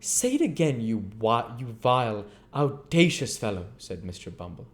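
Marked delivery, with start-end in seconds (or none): 0.0-3.7 indignant beadle. Acted. Bumble scolding Noah.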